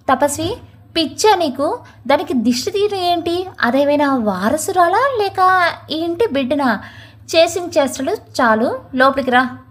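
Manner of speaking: a mildly harsh, cold rebuke; harsh stern voice. Acted. Mother-in-law harshly rebuking her daughter-in-law at the door. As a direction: scold her sternly but without yelling. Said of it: "కఠినంగా ఉంది ప్రమీలాదేవి గొంతు".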